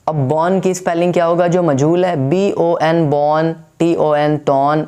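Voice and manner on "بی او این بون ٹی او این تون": بون and تون with a long o; wrong majhool o. Shown as a demonstration. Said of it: "ایسے بالکل نہیں پڑھنا ہے". (غلط مجہول تلفظ: بون، تون)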